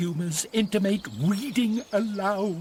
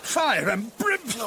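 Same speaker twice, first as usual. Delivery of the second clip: a furious shout from hiding; angry outburst; 3 semitones higher than usual. Acted. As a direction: blurt it out in rage. Sir Toby explodes from hiding.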